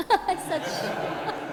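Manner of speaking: real laugh through the words, slow. Real, not acted. Instructor laughing at his own joke to the class, laughing. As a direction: chuckle your way through it.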